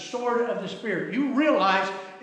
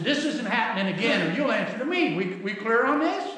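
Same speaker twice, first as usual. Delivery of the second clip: firm re-enacted dad's threat; a touch of fatherly sternness; retold angry warning; 4 semitones higher, 3 dB louder than usual. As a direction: lay down the law with mild anger. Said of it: "I got a little angry".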